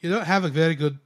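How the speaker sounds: Cockney attempt slipping into Scottish; botched Cockney, sounds Scottish. Host failing at an accent, accidental Scottish. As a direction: try Cockney and land in Scottish. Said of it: "no, that's Scottish".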